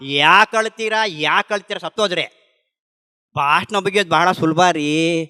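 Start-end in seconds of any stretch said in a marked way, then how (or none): 0.0-2.5 lightly hammed-up sermon delivery; retold preachy speech, mildly put on; mock speechifying. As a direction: imitate yourself lecturing the grieving. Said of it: "ಭಾಷಣ ಬಿಗಿತಾ ಇದ್ದೆ".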